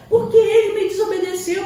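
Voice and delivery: loud, high, indignant retort; defensive parent's excuse. Retold or imitated. Parent excusing the hit, loudly indignant. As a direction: snap back defending the slap. Parent justifies hitting a child.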